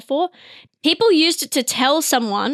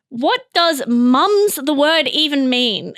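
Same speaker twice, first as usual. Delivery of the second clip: mock upset searcher; slower than usual. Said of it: "It sounds so upset".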